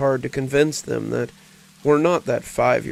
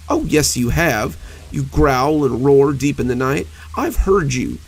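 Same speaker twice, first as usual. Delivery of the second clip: a touch of frightened blustering, slightly louder; angry, frightened bluster; 4 dB louder than usual. Acted. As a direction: puff up with mild, scared indignation. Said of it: "blustering with angry terror".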